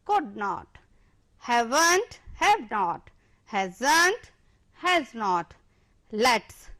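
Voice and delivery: each contraction then its full form, said slowly and clearly; contraction drill. Shown as a demonstration. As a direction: model the words for the class to repeat. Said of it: "repeat after me". (कक्षा को दोहराने के लिए हर शब्द साफ़-साफ़ बोलकर)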